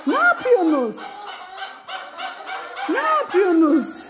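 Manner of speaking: amused high-pitched cooing at chickens; laughing pet talk. Real, not acted. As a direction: scold the hens fondly through laughter.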